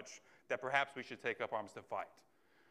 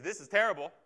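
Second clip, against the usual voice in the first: a louder, angry cry of protest; raging; 4 semitones higher, 8 dB louder, faster than usual. Retold or imitated. Preacher voicing an angry believer's outcry, louder protest. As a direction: spit it out, hating it. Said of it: "You might rage against it".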